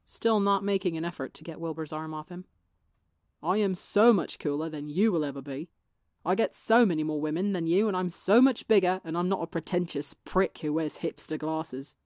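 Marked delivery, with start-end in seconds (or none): 3.4-12.0 loud indignant bragging; indignant boasting. Acted. Tommy insisting to Wilbur he's cooler, indignant loud brag. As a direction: puff up and protest. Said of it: "Tommy argued".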